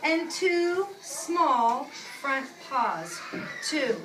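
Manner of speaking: slow, drawn-out storybook reading; unhurried picture-book voice; reading to children. Acted. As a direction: read it slowly to the class. Teacher reads picture book aloud.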